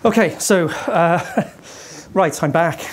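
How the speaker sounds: breathless, panting between words; winded after rushing back; out of breath. Real, not acted. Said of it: "I never heard you so out of breath".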